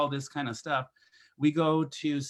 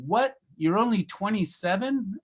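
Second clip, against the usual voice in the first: hammed-up astonishment at her age; mock surprise; 6 semitones higher than usual. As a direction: play it as a cheeky flattering gasp. Mock-amazed compliment to elderly nun.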